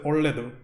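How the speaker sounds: "olledu" in Kannada, falling at the end; Kannada word. Shown as a demonstration. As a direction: say "olledu" cleanly, Kannada style. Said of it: "You say".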